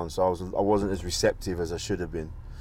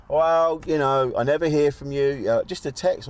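imitating mum; 4 semitones higher than usual. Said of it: "she's always like".

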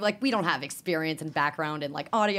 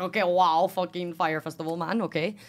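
louder mock Italian wow; a hint of an Italian accent; the speaker's Italian accent; 4 dB louder than usual. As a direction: slip back into the Italian friend. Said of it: "in his immigrant Italian accent".

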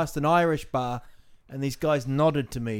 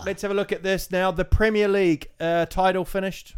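lightly played sports interviewer, a bit higher; mock TV interviewer; 4 semitones higher than usual. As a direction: ask like a pundit after the match, tongue in cheek. Mock post-match interviewer.

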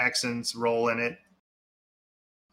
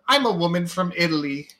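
raised, emphatic mock declaration; mock film actress; 5 semitones higher, 4 dB louder than usual. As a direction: parody an actress's trailer line. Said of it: "this actress come up and say".

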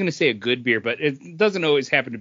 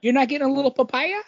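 mock disbelief; 11 semitones higher, faster than usual. Mock incredulous question.

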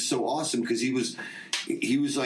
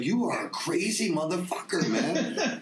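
laughing retold quote; 5 semitones higher, slower than usual. Retold moment of laughing at him.

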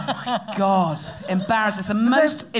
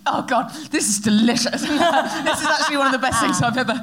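gushing nervous babble; 4 semitones higher, faster than usual. Retold or imitated. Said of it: "And I was like".

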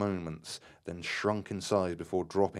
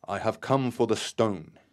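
a firm, loud call, a touch higher; 4 semitones higher, 6 dB louder than usual. A narrator's reading. Terry calls out loudly for the stone. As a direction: announce it loudly to the unseen presence. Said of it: "he said loudly".

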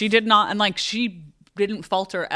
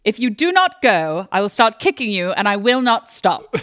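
threatening quote; 4 semitones higher, 5 dB louder than usual. Retold or imitated. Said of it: "Lady Sarah just says".

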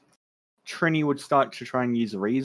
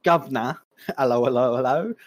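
put-on British accent. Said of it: "my favorite British accent".

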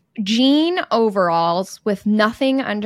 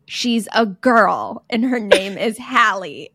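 annoyed; slower than usual. Retold or imitated. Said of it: "Mom would get so annoyed".

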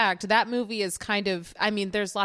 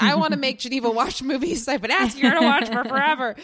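excited; 4 semitones higher, 7 dB louder than usual. Retold or imitated. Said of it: "I'm just like".

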